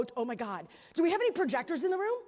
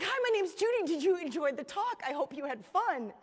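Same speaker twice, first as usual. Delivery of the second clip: a nervous, overly bright hello; awkward nervous greeting; 2 semitones higher than usual. Retold or imitated. Nervous speaker rushes a hello to the woman, awkwardly bright. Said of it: "I was like".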